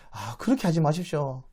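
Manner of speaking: mild urgent entreaty, pressing on 제발; acted pleading. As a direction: politely beg him to go. Jacob begs brother to go first.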